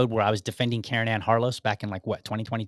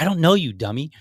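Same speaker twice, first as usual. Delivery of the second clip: louder, higher exasperated retort, dropping at the end; exasperated, raised voice on a retold comeback; angry retort; 3 semitones higher, 3 dB louder than usual. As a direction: repeat the irritated comeback, punched up front. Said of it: "Sorry, I don't mean to be so angry".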